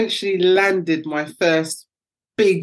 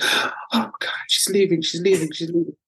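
put-on panicked kids. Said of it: "they were like, gasps".

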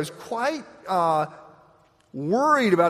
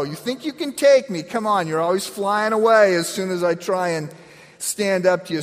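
mock defiant challenge; 4 semitones higher than usual. Retold squaring up to crow.

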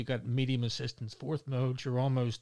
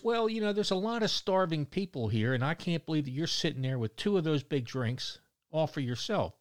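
high, indignant busybody voice, starting much higher; scolding lady; 5 semitones higher than usual. Retold or imitated. Retelling the boardwalk lady who scolds him, high and indignant. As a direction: mimic a preachy stranger scolding. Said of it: "And she says".

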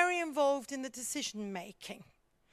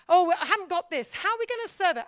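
fast, higher flustered chef; mock frantic chef, louder; panicky chef; 4 semitones higher, 5 dB louder, faster than usual. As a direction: rush it in a mild panic. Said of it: "he said".

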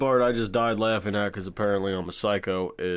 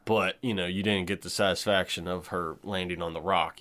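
ordinary talk

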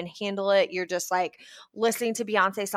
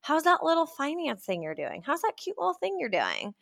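mocking. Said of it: "they would roll their eyes".

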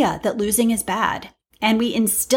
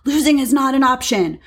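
louder, higher mock scolding; retold parent berating a kid, pitched up; imitated berating parent; 4 semitones higher, 4 dB louder than usual. Upset parent to a kid after a lost game, berating. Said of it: "berating the kid".

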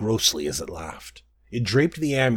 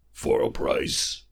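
low, slow monstrous croak; lower, slow croaking beast; croaking slug creature; 9 semitones lower, slower than usual. Acted. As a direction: croak it out like a bloated toad. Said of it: "the slug thing croaked".

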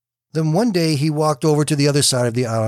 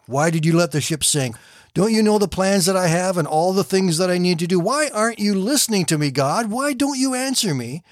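anguished plea; 5 semitones higher than usual. Acted. Preacher crying out to God.

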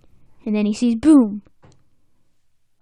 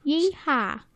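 cowboy yee-haw; 4 semitones higher, 3 dB quieter than usual. Acted. Retrying the cowboy whoop.

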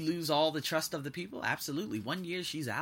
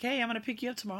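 imitating dad; 10 semitones higher, much faster than usual. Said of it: "He's like".

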